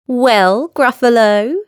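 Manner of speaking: high, lilting mouse voice; lightly acted plucky mouse; storybook mouse. A narrator's reading. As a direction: address the monster in a high voice. Mouse addresses the Gruffalo.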